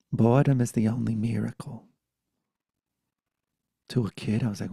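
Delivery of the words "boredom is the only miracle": emphatic Brooklyn grandma; Brooklyn accent. Retold or imitated. Grandmother repeating her lesson, Brooklyn accent. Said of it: "'cause she had a Brooklyn accent".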